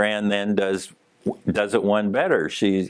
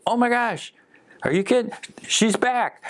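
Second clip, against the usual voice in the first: much higher, amazed cry of relief; astonished. Retold or imitated. EMT seeing the patient open her eyes, astonished. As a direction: gasp it out as if she just came back to life.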